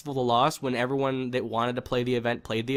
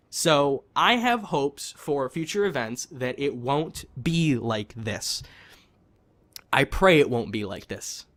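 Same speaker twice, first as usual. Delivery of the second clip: ordinary talk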